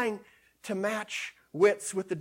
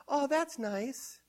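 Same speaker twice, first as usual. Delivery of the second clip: slow, drawn-out, softer mock "Oh, that's nice"; mock shallow approval; 5 semitones higher, 6 dB quieter, much slower than usual. Preacher mocks a believer's shallow reaction to scripture, drawn out. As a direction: sigh out a hollow compliment. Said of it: "No, it's not nice".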